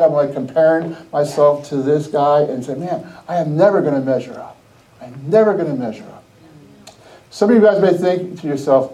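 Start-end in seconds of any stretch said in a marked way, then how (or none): 2.7-6.2 low, mildly defeated mumble to oneself; dejected inner voice. Retold or imitated. Benched player's inside thought comparing himself, dejected. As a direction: sink into a lower, resigned tone. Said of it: "On the inside".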